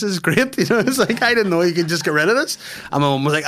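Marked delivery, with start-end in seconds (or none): 0.0-0.6 high, loud retold delight; exaggerated overjoyed impression. Voices delighted shaved aunt. 1.2-2.6 high, loud retold amazement; acted astonished discovery; amazed delight. Voices amazed shaved aunt.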